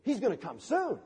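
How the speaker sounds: hopeful reassurance. Acted. Preacher voicing an easy answer to the darkness, mock-hopeful. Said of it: "one thing you can do is say".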